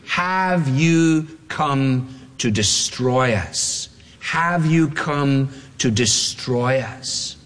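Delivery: slow, eerie demon voice asking; demon's question. Pretend. Preacher voicing the demon confronting Jesus, slow and eerie. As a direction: draw out the words like a wary demon.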